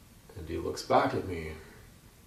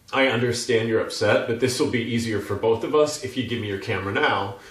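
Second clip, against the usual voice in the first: raised voice, firm official request; yelling over noise; 3 semitones higher, 6 dB louder than usual. Acted. PR lady to the cyclist over freaked-out birds, yelling to be heard. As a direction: talk loudly over the din. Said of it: "She has to yell it for me to hear her".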